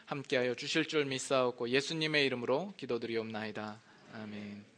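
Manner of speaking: earnest pulpit prayer. Acted. Pastor prays before preaching, humble earnest prayer. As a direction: pray humbly before the sermon. 제가 잠깐 기도합니다.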